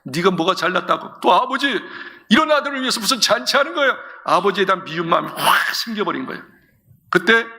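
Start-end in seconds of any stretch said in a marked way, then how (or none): 0.0-4.0 jealous angry son. Acted. Eldest son fuming at his father over the feast, rising indignation. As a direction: spit out the resentment at the brother. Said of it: "화가 난 거야".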